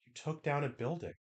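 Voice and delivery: deadpan it softly; soft flat rebuke. Retold or imitated. Acted quote of Miu.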